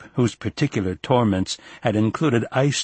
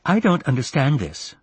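high-pitched, put-out mother on the phone; older mother's indignant complaint; aggrieved mother; 6 semitones higher than usual. Acted. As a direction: voice her higher, with reproach.

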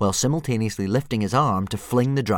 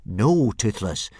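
a slow, louder firm no; 2 semitones higher, 6 dB louder, slower than usual. Acted. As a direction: set a firm limit. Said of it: "said Hiccup firmly".

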